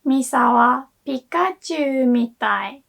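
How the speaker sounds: "Misa wa Pikachu mitai" rising on Misa, mitai kept flat; intonation for is like. Shown as a demonstration. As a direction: lift "Misa" and keep "mitai" level, meaning is like. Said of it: "Can you hear the difference?".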